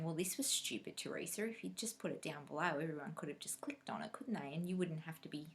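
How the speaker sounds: soft self-scolding; scolding herself quietly for no link; muttering to herself. Retold or imitated. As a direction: mutter at yourself under your breath. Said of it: "I'm going".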